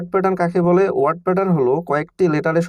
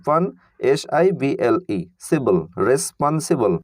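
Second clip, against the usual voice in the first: রেসপন্সিবল said very slowly after সিবল; slow syllable build-up; 3 semitones lower, slower than usual. Shown as a demonstration. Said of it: "R E S, রেস". (ধীরে ধীরে জোড়া লাগিয়ে রেসপন্সিবল)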